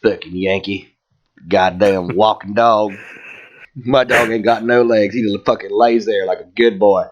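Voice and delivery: lightly voiced Southern grumbler; a touch of disgruntled Southern local; Southern porch-sitter. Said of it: "someone sitting on his porch, like".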